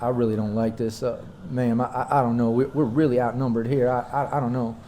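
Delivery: a touch uneasy, stumbling over the first words; nervous. Acted. Man in the RV warning he is outnumbered, mildly nervous. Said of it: "He seems nervous".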